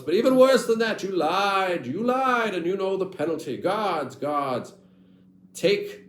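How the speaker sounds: high, loud royal fury; furious king. Acted. King condemning his lying son to death, furious and loud. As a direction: bellow the sentence like an enraged king.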